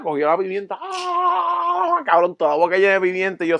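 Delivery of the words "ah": mock choking cry. Friend eats pepper, chokes.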